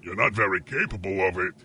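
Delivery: low, quick mimicry of the cohost; mocking echo. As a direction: parrot it back at him mockingly. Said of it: "I was mocking what".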